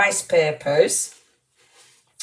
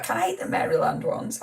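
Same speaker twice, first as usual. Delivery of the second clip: whispered, softer question to a friend; hushed hopeful question; 6 dB quieter, faster than usual. Real, not acted. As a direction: ask it under your breath. Hoping the biscuits are safe.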